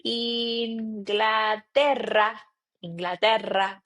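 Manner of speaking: Inglaterra with a rolled rr; Spanish pronunciation. Shown as a demonstration. Teacher modelling country names, careful Spanish pronunciation. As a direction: roll the rr in Inglaterra. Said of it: "you will say".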